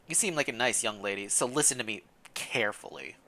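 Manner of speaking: hushed. Acted. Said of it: "and whispers".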